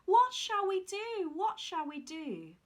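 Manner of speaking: high, slow despairing cry; sobbing lament. Acted. Mother with apron over her head, slow sobbing lament. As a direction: wail it like a mother at her wits' end. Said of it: "and sobbed".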